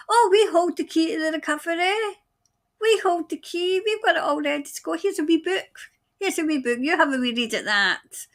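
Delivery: mocking quote. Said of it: "I'm mocking the crazies".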